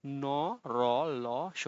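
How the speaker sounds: "ন, র, ল, স" with tongue at the tooth roots; alveolar consonants. Shown as a demonstration. Teacher invites students to try, "ন, র, ল, স" as alveolar sounds. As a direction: sound out "ন, র, ল, স" one by one on the gum ridge. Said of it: "দাঁতের গোড়ালির সঙ্গে লেগে যায়".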